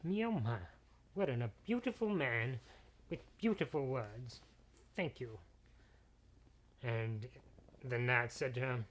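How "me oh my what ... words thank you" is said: put-on a touch of fluttery flattered girl; all atwitter. Daughter to the handsome knight, lightly flustered and flattered. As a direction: coo back, flustered by the compliment. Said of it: "she was just all to twitter".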